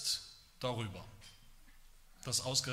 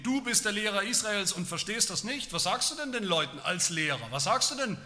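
indignant rebuke; 3 semitones higher, 5 dB louder than usual. Acted. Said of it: "Und Vers zehn".

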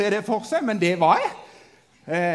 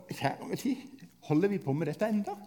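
ordinary talk

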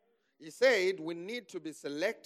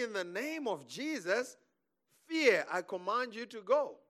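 commanding faith declaration, raised pitch; bold command; 4 semitones higher than usual. Acted. Preacher models rebuking fear, bold command. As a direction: boldly order fear out. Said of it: "And then act boldly".

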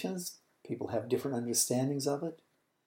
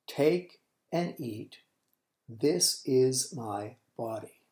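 solemn words; much slower than usual. Acted. Jesus at the supper.

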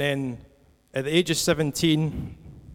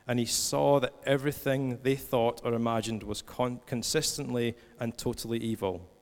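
measured, slightly lower and softer reading voice; scripture reading; 3 semitones lower, 4 dB quieter than usual. Acted. Preacher reading Genesis to a church, measured scripture reading. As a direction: read the passage aloud, understated.

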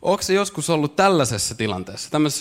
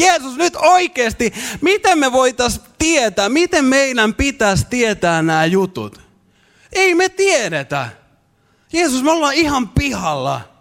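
much higher, louder, desperate cry; Tuomas shouting; 8 semitones higher, 3 dB louder than usual. Retold or imitated. Disciple yells at Jesus in panic, much higher. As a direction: yell in panic that nobody understands. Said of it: "alkaa huutaa Jeesukseen".

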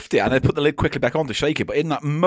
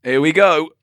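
whisper; 6 dB louder than usual. Real, not acted. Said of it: "whisper heard".

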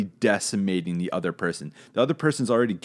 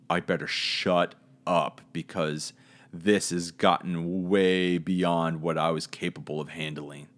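humble fear; 4 semitones lower than usual. Retold or imitated. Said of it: "like, a humble fear".

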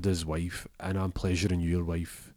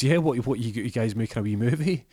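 higher, friendly nosy question; cheeky curious lad; chirpy shop lad; 4 semitones higher than usual. Acted. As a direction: Arjaf chats to the customers.

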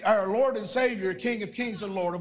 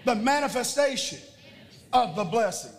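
congregation declaration; 3 semitones higher than usual. Shown as a demonstration. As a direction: proclaim it for all to repeat.

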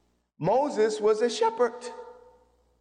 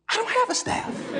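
higher, breaking into laughter; laughing disbelief; 12 semitones higher than usual. Real, not acted. Preacher telling God he has no staff, laughing.

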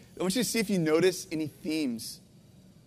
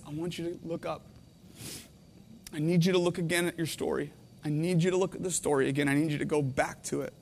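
whisper; 4 semitones lower, 6 dB quieter than usual. Acted. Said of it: "God whispers in my heart and says".

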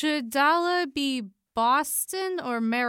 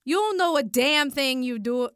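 put-on tough Boston accent, punchy and combative; fighty Boston accent; 3 semitones higher than usual. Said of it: "That's why I gotta sound fighty".

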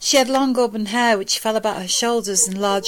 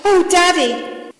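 put-on much higher, slow girl's exclamation; high, drawn-out child's cry; 10 semitones higher, 4 dB louder, slower than usual. A narrator's reading. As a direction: draw it out as a little girl calling her father. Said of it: "she cried".

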